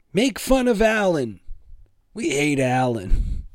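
mock crowd outcry, high at first, then slowing; imagined jeering crowd. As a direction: play an up-in-arms crowd egging on the mockery. Mocking imagined crowd cheering him on.

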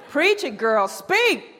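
loud, high gospel-style exhortation; playful preaching. Acted. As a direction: cheer on a preacher from the pews. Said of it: "'cause I, like, start preaching".

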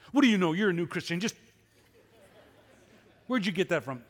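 loud, indignant snapping at a friend; fuming retort. Retold or imitated. Pastor replaying his angry reply to a new Christian friend, loud and indignant. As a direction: bark it back like a wounded man defending himself. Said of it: "and I was just fuming".

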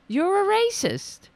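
yelled high and loud, full force; outraged shout; angry shout. Real, not acted. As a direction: hurl the accusation at them. Ranting at Trump voters.

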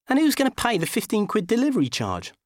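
high, fretful Dickie voice; squeaky, anxious man; whiny high man voice. Acted. Dickie's voice in story.

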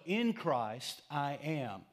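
"In Christ" punched ahead of "I am"; stress on In Christ. Shown as a demonstration. Preacher demonstrating the statement, stress on "In Christ". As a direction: hit "In Christ", ease off on "I am". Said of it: "put the emphasis on the right syllable".

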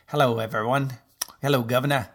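mock Cockney accent greeting. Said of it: "when she starts talking Cockney".

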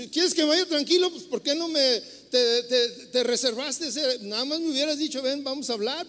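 mock complaint to the wife, hurt and impatient; a put-out husband firing back; exasperated. Exasperated reply to spouse.

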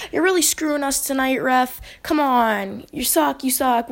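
mildly heated retelling of a livid coach. Retold or imitated. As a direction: imitate a fed-up coach's complaint. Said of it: "He's livid".

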